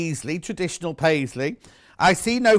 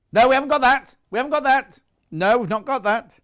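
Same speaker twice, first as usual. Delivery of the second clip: excited; 8 semitones higher, 5 dB louder than usual. Real, not acted. Excited discovery.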